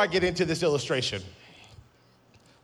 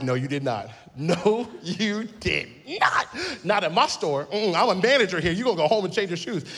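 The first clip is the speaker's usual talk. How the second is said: sassy scolding manager; 3 semitones higher than usual. Retold or imitated. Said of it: "And we were like".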